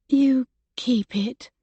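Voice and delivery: shaky little voice. Acted. Woman refusing the painting from the man she loves, slow and shaky. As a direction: hold back tears as you hand it back. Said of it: "she said in a shaky little voice".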